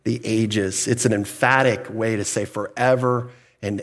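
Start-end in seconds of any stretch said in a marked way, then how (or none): 0.0-0.9 into the ages drawn out slowly; slow translation. Shown as a demonstration. Preacher giving the literal Greek meaning, slow. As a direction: let into the ages land, slowly. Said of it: "literally translated".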